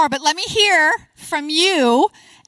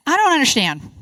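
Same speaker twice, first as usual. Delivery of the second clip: feigned confusion; 2 semitones higher than usual. Shown as a demonstration. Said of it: "feign confusion".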